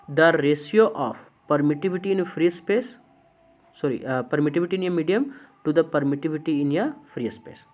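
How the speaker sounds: slow, word-by-word dictation of a definition; teacher dictating the definition slowly to students. Shown as a demonstration. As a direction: spell it out slowly so students can write. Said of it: "फिर से सुनिए".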